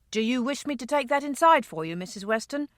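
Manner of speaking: a hint of a dutiful driver; lightly voiced coachman. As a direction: offer help with courteous deference. Coachman offers help to lady.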